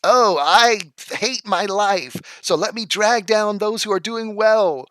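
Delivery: slow whiny "oh, I hate my life"; mocking the idea of a bitter envious man; mock self-pitying whiner. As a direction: parody the hater's sad sigh. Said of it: "psychological benefit of being like".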